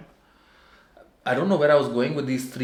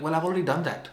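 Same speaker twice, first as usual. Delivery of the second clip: mock annoyed retort; 6 semitones higher, much faster than usual.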